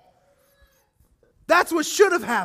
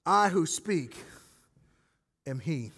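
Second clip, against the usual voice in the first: solemn revelation; 7 semitones lower, 5 dB quieter than usual. Retold or imitated. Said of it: "Jesus uses this phrase".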